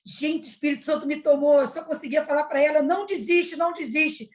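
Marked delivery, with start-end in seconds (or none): 2.8-4.3 mild, raised-pitch pleading cry; imitating an urgent plea, not a full shout; retold urgent cry. Pleading with Maria not to give up, mildly crying out. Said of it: "eu só gritava aquilo ali".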